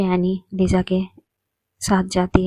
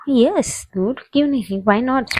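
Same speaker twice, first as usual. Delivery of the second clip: June's voice; 5 semitones higher, slower than usual. Acted. June's cheerful higher voice.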